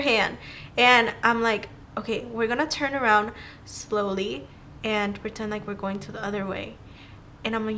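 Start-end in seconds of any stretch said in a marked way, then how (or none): 2.0-6.8 soft, secretive instructions, retold; low-volume, careful directions; hushed planning. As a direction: lay out the plan under your breath. Secretly plans escape with friend.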